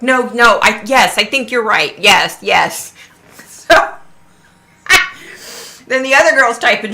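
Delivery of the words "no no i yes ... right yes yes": firmer imitation of the psychic; growing certainty. Imitating a psychic now confirming to the girl, certain. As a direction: correct yourself and settle on a sure yes. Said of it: "she's questioning herself at the beginning, right? And then she's like".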